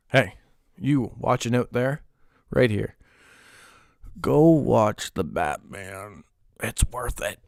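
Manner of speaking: low, slow hero-style growl; mock-gritty movie plug. Telling viewers to go see the Batman, mock-gritty low voice. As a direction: drop low and drag out the command.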